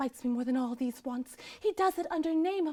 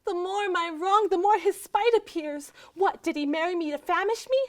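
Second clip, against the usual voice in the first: raised pitch, aggrieved railing; indignant complaint; 4 semitones higher, 4 dB louder than usual. Acted. Starved wife railing at her husband's spite, indignant.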